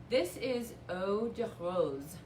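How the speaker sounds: slow, playful mock French accent; lightly hammed French accent, drawn out. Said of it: "my best attempt at a, a French accent".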